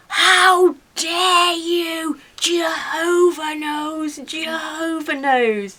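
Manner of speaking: high, loud and very slow, every word dragged out; outraged. Retold or imitated. Neighbour erupting at the accusation, hammed-up slow outrage. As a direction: let an indignant fury burst out. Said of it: "The demon was released".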